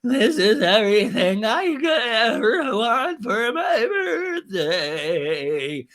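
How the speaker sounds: high, slow, tearful sobbing; mock crying. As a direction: imitate her blubbering through tears. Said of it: "and she's crying".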